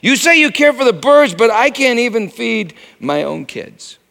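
retold desperate prayer; anguished plea. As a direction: cry out to God in desperation. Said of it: "I cried out to God".

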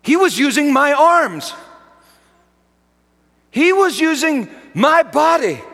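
fervent revival preaching; preaching at full force. Acted. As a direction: thunder it from the pulpit.

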